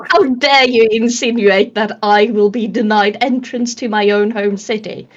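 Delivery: lightly indignant Karen; entitled complaint, mildly acted; mock outrage. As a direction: take haughty offence, playing it up. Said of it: "that was a Karen moment".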